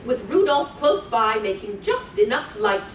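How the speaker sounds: put-on lilting read-aloud for small children; sing-song storytelling voice; storybook reading. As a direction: read it like a bedtime story to little ones. Reading continues.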